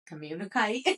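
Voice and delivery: twangy put-on accent on "communicate", last syllable like "kite". Friend clowning about the brain and biting, twangy put-on accent. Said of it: "Talk like that".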